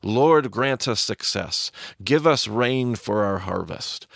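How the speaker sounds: slow, fervent chanted plea; worked-up crowd. Retold or imitated. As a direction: build it like a crowd in a frenzy. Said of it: "getting worked up into a frenzy".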